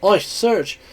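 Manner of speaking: startled at the sight; shocked shout. Acted. Kid shocked at door.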